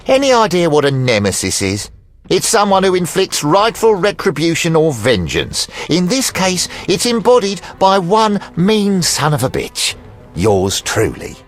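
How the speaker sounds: high-pitched, taunting menace; theatrical threat. Acted. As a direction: lecture him like a self-declared avenger. Creditor threatens the witcher theatrically.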